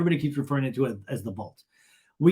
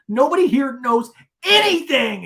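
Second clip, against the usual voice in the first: high, loud mock outrage; slow, hammed-up protest; Shannon; 10 semitones higher, 8 dB louder than usual. Shannon defending her relationship, mock outrage. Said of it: "And Shannon goes".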